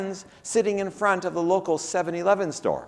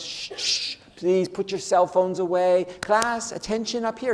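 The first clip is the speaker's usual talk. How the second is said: gentle teacher. Retold or imitated. Teacher hushing her noisy class, lightly voiced, gentle. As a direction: soothe the class like Miss Honey. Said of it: "very gentle energy".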